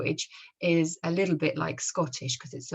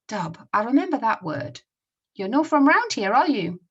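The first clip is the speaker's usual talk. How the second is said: higher, louder Scottish character voice; Scottish accent; 5 semitones higher, 6 dB louder than usual. Acted. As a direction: act out the comic in a Scots accent. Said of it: "I'll try my best to read them using the Scottish accent".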